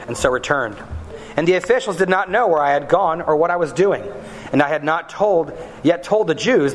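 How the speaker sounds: measured formal reading of Scripture. Acted. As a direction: read the passage with steady weight. Reading Nehemiah scripture aloud.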